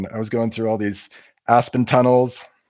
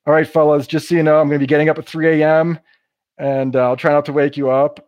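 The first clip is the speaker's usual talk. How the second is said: louder, friendly heads-up across the camp; calling out; 3 semitones higher, 5 dB louder than usual. Retold or imitated. Hiker calls out to campers at the trailhead, louder and friendly. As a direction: raise the voice to reach the others.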